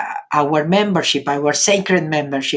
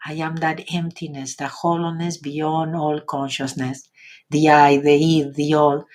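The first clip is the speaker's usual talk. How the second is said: recited invocation. Acted. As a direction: intone each line like a sacred poem.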